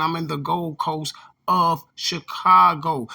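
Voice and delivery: slow, over-careful mock of an outsider's phrasing; mock proper speech. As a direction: spell it out slowly, like nobody local would say it. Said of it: "This is why he keeps saying".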